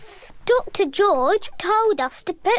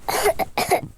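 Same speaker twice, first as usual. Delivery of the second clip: fake cough. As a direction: cough for the toy. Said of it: "And monkey has a cough".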